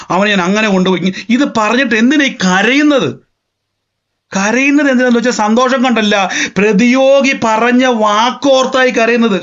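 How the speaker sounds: high, driving sermon voice with stretched key words; impassioned preaching. Real, not acted. Preacher urging listeners to think in the spirit, impassioned.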